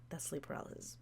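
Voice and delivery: soft mock objection; a quiet, unvoiced mock retort; imitating a listener. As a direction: voice the viewer's comment under your breath. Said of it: "you're like".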